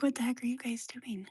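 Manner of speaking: voiced pet thoughts in a whisper; hushed pet voice. Voicing pet's thoughts.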